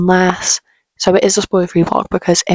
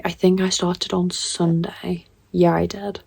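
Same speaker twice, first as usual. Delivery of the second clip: hushed, slow late-night voice; quiet; 5 dB quieter, slower than usual. Real, not acted. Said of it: "quieter late night update".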